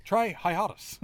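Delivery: cheerful drug ad voice. Pretend. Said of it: "a medicine infomercial".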